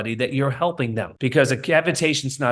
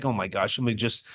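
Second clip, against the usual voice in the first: low, much softer exasperated mutter under the breath; muttered aside; 8 semitones lower, 7 dB quieter than usual. Retold or imitated. Standing behind the patient, exasperated, muttering under his breath. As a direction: roll your eyes and grumble it to yourself.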